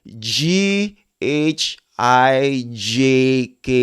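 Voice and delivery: G, H, I, J, K recited distinctly; each of G, H, I, J, K held out cleanly; very clear letter sounds. Shown as a demonstration. Teacher modelling the alphabet, clear separate letters. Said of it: "say the word in a very, very clear sound".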